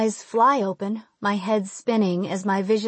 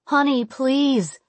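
pleading mother; 5 semitones higher, 4 dB louder, slower than usual. Acted. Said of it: "my mom says".

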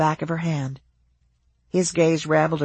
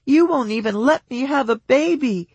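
high, loud bitter cry; hot outburst; 8 semitones higher, 4 dB louder than usual. A narrator's reading. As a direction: fling it at him. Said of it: "hot words that continued to spew".

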